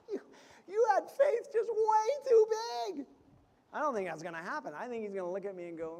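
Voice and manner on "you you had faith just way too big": higher, louder, laughing through it; mock scolding, cracking up.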